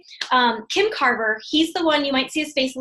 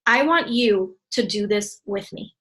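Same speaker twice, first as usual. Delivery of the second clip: slow dictation; 3 semitones lower, slower than usual. Shown as a demonstration. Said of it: "Write this one down".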